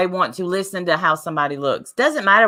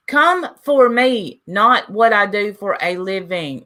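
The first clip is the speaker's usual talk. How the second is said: defiant; 3 semitones higher, slower than usual. Real, not acted. Defiant to chat.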